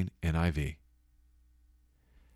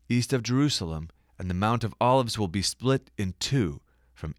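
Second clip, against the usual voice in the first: scripture reading. Acted. Reads prophecy aloud.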